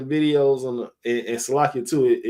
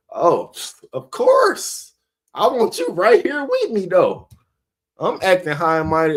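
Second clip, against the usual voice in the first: mock a smug know-it-all, pitched way up. Mocking a smug high-and-mighty quitter.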